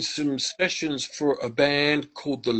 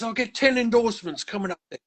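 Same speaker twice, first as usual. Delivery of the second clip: put-on higher, fast English country accent; 8 semitones higher, faster than usual. Retelling Roger's phrase in a country accent. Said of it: "in his country accent".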